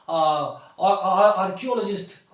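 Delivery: halting, with a repeated filler word; hesitant learner searching for the word; stammering beginner. Shown as a demonstration. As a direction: act out stumbling into a hard word. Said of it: "आप हकलाएंगे".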